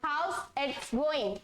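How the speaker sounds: very slow, drawn out; slow repeat-after-me read; slow model phrase. Shown as a demonstration. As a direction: model it slowly for the class to repeat. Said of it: "मेरे बाद".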